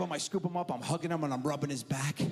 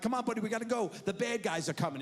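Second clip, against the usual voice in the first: put-on raised, playful urgency to a child; urgent dad; 6 semitones higher, much faster than usual. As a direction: hurry your buddy along. Dad urges son along on ride.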